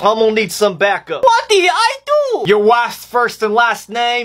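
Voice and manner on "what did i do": high, panicked plea; panicked protest. Acted. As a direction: plead in a panic. Repeated protest, now panicked.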